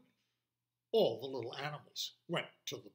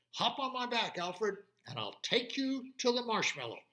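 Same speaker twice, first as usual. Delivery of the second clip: crow voice; 8 semitones higher, 5 dB louder than usual. Acted. Crow offers ride.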